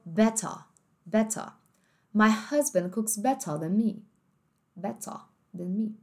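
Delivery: "better" with no final R, ending in an open ah; British better. Shown as a demonstration. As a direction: say "better" the British way, crisp T, R dropped. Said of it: "E no britânico".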